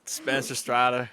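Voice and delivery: slow, badly faked Australian; mock Australian accent. Shown as a demonstration. Proving to doubting friends it sounds Australian, mock Australian accent. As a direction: show off a dubious Australian accent. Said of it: "does that not sound Australian".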